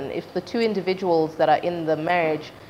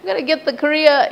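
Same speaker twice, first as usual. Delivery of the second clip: high-pitched, hammed-up daughterly protest; mock protest; 14 semitones higher than usual. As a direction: plead your case to mom, comically high. Acting her protest to her mother.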